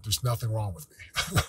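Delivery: softly spoken, almost to yourself; hesitant quiet affirmation; timid first try. Shown as a demonstration. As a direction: say it quietly, not yet believing it. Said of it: "I want you to say it out loud".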